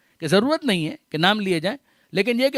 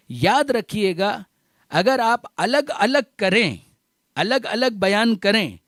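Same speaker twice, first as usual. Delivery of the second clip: slow, deliberate and raised, building to a point; slow preaching emphasis; 2 semitones higher, slower than usual. Acted. Preacher slowly urging the congregation to remember. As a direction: lean on each word to make the crowd remember.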